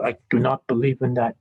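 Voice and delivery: lightly faked Russian accent; half-hearted mock Russian; attempted Russian accent. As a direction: try a stiff Russian accent, each word separate. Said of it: "I can't do the Russian accent".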